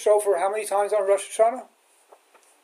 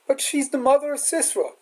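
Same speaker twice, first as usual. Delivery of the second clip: objecting student; 6 semitones higher than usual. Retold or imitated. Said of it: "there's always three or four who are gonna say".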